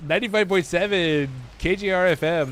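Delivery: lightly voiced station tagline; a hint of radio DJ. Streamer recalling the old station tagline, light DJ voice. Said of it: "that was the old tagline".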